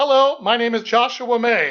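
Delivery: upbeat radio announcer voice. Demonstrating a name introduction for the listener to copy, radio announcer sound with lift. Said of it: "I have it in that radio announcer sound".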